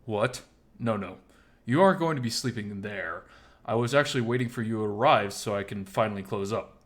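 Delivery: loud, emphatic bar owner correcting a misunderstanding; surprised Oswald. Acted. Oswald telling Miles he won't sleep backstage, emphatic.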